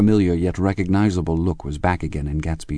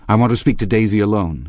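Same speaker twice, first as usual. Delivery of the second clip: insistent; 4 semitones higher, 5 dB louder, faster than usual. Acted. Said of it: "he insisted".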